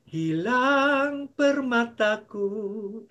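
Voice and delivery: slow, drawn-out hammed-up mourning; mock lament. Pastor mourning his lost jewel, slow and mock-sad. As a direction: drag each loss out with mock grief.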